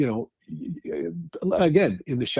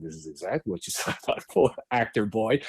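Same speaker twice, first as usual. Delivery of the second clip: Patty Brown. Retold or imitated. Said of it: "Patty Brown's voice again".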